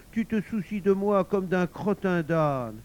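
lightly voiced reproachful wife; sulky wife. A narrator's reading. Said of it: "Elle se défit de lui en grognant".

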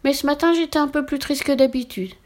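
a lonely witch owning up to the postman; high witch voice, sorry and wistful. Acted. Witch confesses stealing letters.

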